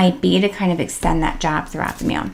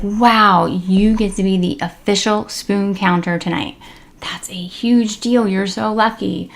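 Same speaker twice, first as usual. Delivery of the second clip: hushed excitement. Shown as a demonstration. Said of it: "more enunciation and emotion on those words".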